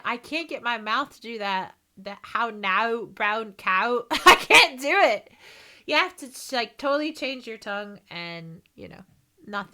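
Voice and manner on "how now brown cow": half-hearted Northern Irish vowels; attempted Northern Irish accent. Shown as a demonstration. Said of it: "tried to do the Northern Irish accent".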